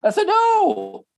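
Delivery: high and slow That's a no; emphatic no. Real, not acted. Husband to the audience, a slow emphatic high no. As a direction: stretch it out so nobody misses it. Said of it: "spelling out the meaning".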